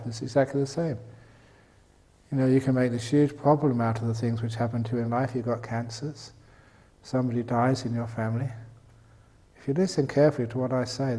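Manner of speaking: normal talking voice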